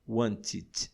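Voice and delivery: wanted in two syllables, "want-id"; ED as extra syllable. Shown as a demonstration. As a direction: add a syllable at the end of wanted. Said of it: "acrescentar uma nova sílaba".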